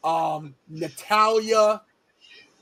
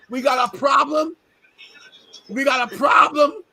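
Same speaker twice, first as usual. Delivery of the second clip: loud, higher challenge; raised threatening warning; retold confrontation; 4 semitones higher, 4 dB louder than usual. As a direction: square up and warn her. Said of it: "I said".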